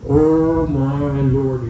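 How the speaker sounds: slow, drawn-out amazement; amazed young lad. Acted. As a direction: stretch it out in mock wonder.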